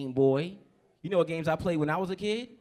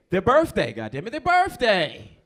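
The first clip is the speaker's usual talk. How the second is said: loud, high, slow shouted punchline; exasperated shout; 6 semitones higher, 12 dB louder, slower than usual. Acted. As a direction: yell it, fed up with everyone. Comedian's punchline rant.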